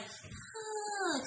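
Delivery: a high little mock "Huh"; mimicking actress. Friends mocking an actress's habit, high mock grunt. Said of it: "got more into this, like".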